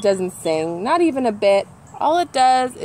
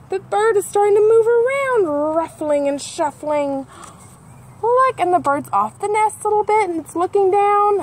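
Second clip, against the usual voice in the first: higher, louder eager reading; excited; 10 semitones higher, 3 dB louder than usual. Acted. Telling kids the bird is moving, excited. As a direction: build suspense for the hatching. The egg is hatching.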